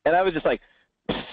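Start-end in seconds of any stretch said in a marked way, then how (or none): 1.1-1.2 long hissed exhale, like air escaping; deflating hiss. Retold or imitated. Reacting to the kid's rejection email, deflated hiss. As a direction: let the air out in a long pssst.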